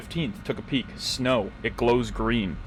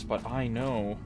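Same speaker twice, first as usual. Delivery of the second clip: Oxhorn impression; much slower than usual. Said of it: "my Oxhorn impression is back".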